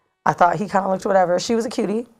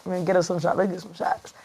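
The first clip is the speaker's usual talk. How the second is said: softly murmured imitation of boyfriend; hushed retold coaxing; imitated whispering; 7 dB quieter than usual. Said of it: "whispering on, in my neck or something".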